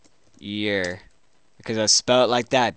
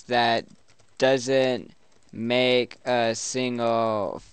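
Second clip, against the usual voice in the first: slow word-by-word mock rage, easing off in volume; mock raging; much slower than usual. Player typing an insult at chatbot, slow mock rage. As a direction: spell out the insult one word at a time. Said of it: "That was me raging".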